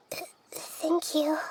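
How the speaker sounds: breathy stammered thanks, slow; hesitant whisper. Acted. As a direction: whisper it, barely getting the words out. Shaken, unsure thanks after bad news.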